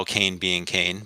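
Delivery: "Kane" said to rhyme with "rain"; Kane with long A. Shown as a demonstration. Host allowing the other school its pronunciation, "Kane" with a long ay. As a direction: give both words "Kane" a clear ay vowel. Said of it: "because that's how they say it".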